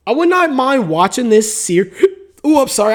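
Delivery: hiccuping mid-sentence; interrupted by a hiccup. Real, not acted. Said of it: "I got the hiccups right now".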